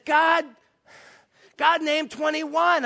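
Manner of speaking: high, loud, slow and halting; imitating a man's strained explanation; exasperated insistence. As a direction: hammer it out for someone who won't get it. Man insists loudly and slowly.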